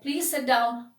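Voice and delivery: mild, courteous invitation to sit; polite request. Shown as a demonstration. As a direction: politely ask someone to sit. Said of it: "your way of pitch of telling".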